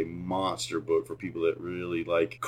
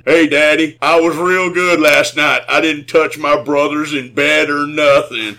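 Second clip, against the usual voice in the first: put-on childish voice; 7 semitones higher, 10 dB louder than usual. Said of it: "I walked up behind him and went".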